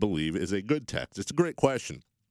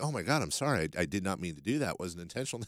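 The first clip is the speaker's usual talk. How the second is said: apologetic; 4 semitones lower, 5 dB quieter than usual. Retold or imitated. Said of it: "part of me was genuinely taken aback".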